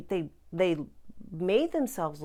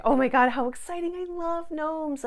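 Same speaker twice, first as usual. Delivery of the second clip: excited gushing; 12 semitones higher, 10 dB louder than usual. Retold or imitated. Gushing to a client about loving gnomes. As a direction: squeal with fangirl delight.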